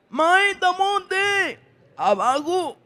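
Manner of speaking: put-on high, very slow little boy's voice; child's request. Boy asking his teacher to get down, childlike and slow. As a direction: ask slowly like a small child. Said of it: "ya me dice".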